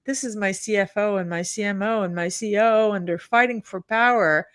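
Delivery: retold mild exasperation of a fed-up boss; exasperated eye-roll. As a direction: complain wearily, imitating a boss at the end of his patience. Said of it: "he's literally rolling his eyes back".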